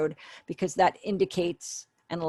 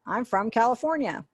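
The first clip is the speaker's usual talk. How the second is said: emphatic confirming yes; 5 semitones higher, 4 dB louder than usual. Shown as a demonstration. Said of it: "So you would sign".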